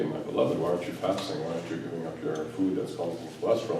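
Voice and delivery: hushed, tender whisper of God; a mild, breathy divine murmur; soft voice of Allah. Acted. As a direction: whisper it lovingly, like God gently asking. God's voice addressing a believer.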